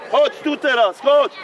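loud short summons; calling out. Real, not acted. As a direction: bark him over to you. Coach calling player over. (głośne, krótkie wezwanie)

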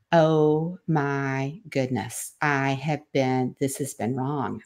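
soft, slow dawning dismay; stunned realization. Retold or imitated. Mother realizing her mistake, soft and slow. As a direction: let it sink in quietly. Sudden conviction, quiet realization.

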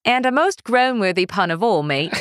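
half-strength cartoon British; toned-down British accent. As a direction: attempt British, lightly held back. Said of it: "half of that".

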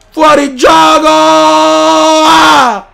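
loud indignant yell; outraged shout. Real, not acted. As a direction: protest loudly.

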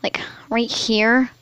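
slow hushed whisper. Real, not acted. Pointing at spot on face.

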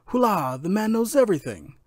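high, loud cry of the servant; yelling. A narrator's reading. Servant jumps out of the oven thinking he's found, yelling. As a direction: burst out with a high-pitched yell. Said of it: "jumped out of the oven yelling".

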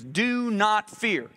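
"Do not fear." stretched very slow, NOT leaned on; slow, deliberate do not fear. Shown as a demonstration. Preacher repeating Moses' words for the crowd, very slow. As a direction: drag out "Do not fear." so each word lands. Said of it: "Look at this".

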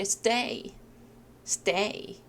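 "stay" with a soft unaspirated t, close to s-day; natural t. Shown as a demonstration. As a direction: let the t in "stay" go without a puff of air. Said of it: "트보다 약간 자연스럽게".

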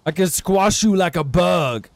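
slow, scornful monster voice; slow dismissive giant. Pretend. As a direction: lazily taunt a tiny foe. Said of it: "He says".

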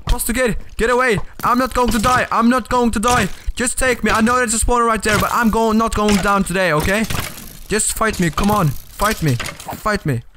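high hammed-up action-hero taunts; mock battle cry. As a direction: play the defiant hero.

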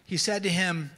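measured, emphatic reading aloud; scripture reading. Acted. Preacher reading the rich man's plea to Abraham, emphatic scripture reading. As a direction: read it out with weighty stresses and pauses.

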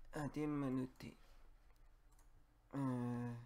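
ordinary talk, nothing marked

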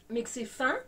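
ordinary talk

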